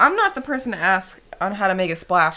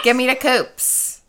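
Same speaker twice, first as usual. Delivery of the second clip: slow drawn-out; 3 semitones higher, much slower than usual. Pretend. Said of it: "repeats slowly".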